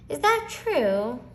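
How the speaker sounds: a mother let down, asking slowly; hurt, drawn-out question; disappointed. A narrator's reading. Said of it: "Mom sounded dis-, disappointed".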